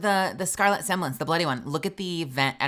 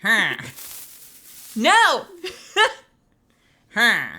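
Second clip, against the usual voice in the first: surprised shout; 6 semitones higher, 8 dB louder, slower than usual. Real, not acted. Excited shouted reaction.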